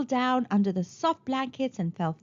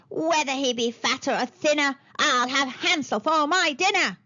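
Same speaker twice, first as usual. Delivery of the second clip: crowing witch; 3 semitones higher than usual. Acted. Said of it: "she crowed".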